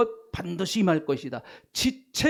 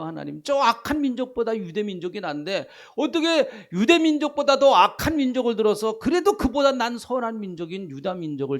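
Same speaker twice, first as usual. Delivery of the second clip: protesting to God; 4 semitones higher than usual. Retold or imitated. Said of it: "이건 어떻게 보면 항의예요".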